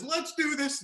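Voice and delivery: warrior battle cry. Acted. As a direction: psych yourself up to charge. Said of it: "he just says".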